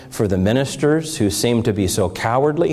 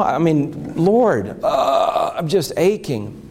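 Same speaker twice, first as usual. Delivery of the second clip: retold tearful prayer; 6 semitones higher than usual. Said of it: "I kept weeping".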